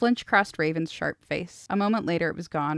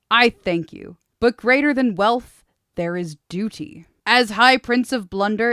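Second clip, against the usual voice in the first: commanding prince; 2 semitones higher, 7 dB louder than usual. Acted. Prince's speech to the hall.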